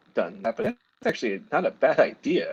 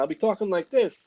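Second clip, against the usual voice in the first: mock New Jersey accent, pitched up; 6 semitones higher than usual. Shown as a demonstration. Showing a friend how his old accent returns, New Jersey accent. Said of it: "my New Jersey accent will come back".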